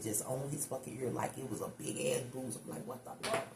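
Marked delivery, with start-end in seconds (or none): 2.9-3.5 voiceless, stunned whisper; under-the-breath shock; whispered disbelief. Retold or imitated. Retells her stunned reaction.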